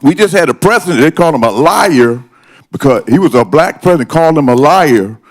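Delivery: rising upset, pitch climbing high; getting worked up and indignant. Real, not acted. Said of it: "I was trying to stay calm. I'm a little upset".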